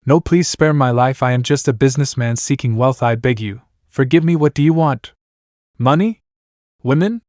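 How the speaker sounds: a mildly panicked plea, pitch climbing; fearful pleading. Acted. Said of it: "the dwarf shouted with fear".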